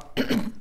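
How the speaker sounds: choking cough, clearing throat. Real, not acted. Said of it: "je m'étouffe". (raclement de gorge)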